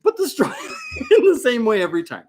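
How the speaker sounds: fast, laughing excited shout. Real, not acted. Laughing instruction, raised voice.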